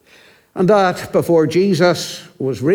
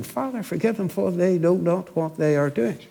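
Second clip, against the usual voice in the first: hushed prayer; 6 dB quieter than usual. Acted. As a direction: pray it gently under the breath. Jesus' prayer quoted on cross.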